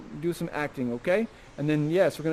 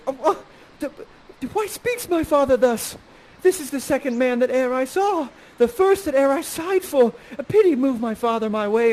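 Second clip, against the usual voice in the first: put-on girlish plea; 5 semitones higher, 3 dB louder than usual. Miranda pleading in high voice.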